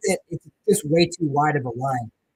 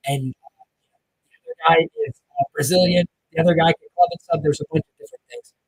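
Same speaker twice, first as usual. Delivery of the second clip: underwater; 4 dB louder than usual. Real, not acted. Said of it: "Sounds like I'm underwater".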